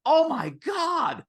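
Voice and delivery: high, gushing amazement; very high mock gushing; amazed client. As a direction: gush like a wowed client. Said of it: "and they're like".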